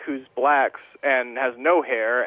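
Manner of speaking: "black" leaned on, slowed; stress on black. Real, not acted. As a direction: drag out the word "black". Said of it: "Why'd you emphasize black like that?".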